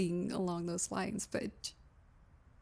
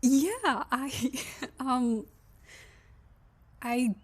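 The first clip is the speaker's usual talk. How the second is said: awkward greeting; 4 semitones higher than usual. Acted.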